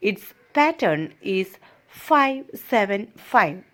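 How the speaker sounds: slow, deliberate classroom reading; reading aloud. Shown as a demonstration. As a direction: read each word out slowly for the class. Teacher reads English text aloud. (പതുക്കെ വായിക്കുന്നു)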